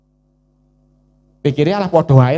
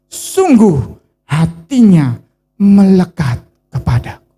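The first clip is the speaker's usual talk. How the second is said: voice of God; 6 dB louder, slower than usual. Acted. God's voice in a sermon.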